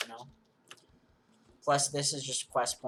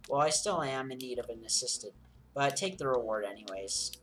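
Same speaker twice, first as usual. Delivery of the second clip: character voices; 4 semitones higher than usual. Acted. Voices NPCs in quest dialogue.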